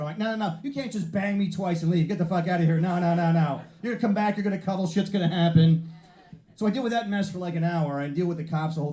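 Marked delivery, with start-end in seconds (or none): 0.2-5.9 raised pitch, clingy mock protest; lightly acted jilted ex-lover. Man stopping the driver who bumped him, mock jilted lover. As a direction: plead and scold like a spurned lover. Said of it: "like, a jilted ex-lover".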